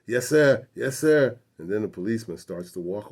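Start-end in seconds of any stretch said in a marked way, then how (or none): 0.0-1.4 higher, louder yessir imitation; deferential grandfather. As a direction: agree eagerly, as if placating a cop. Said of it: "my grandfather says".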